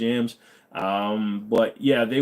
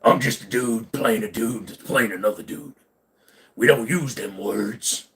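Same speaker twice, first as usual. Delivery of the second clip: 1 Peter Griffin-ish. Pretend. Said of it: "That was a little bit Peter".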